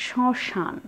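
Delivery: শ্মশান with silent m and nasal vowel; slightly nasalised vowel. Shown as a demonstration. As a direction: say শ্মশান as shõshan. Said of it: "শুধু একটু নাসিক্য উচ্চারণ হবে".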